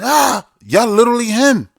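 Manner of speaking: high shrieky commenter voice; mock screaming commenter. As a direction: shriek it like a ranting fan.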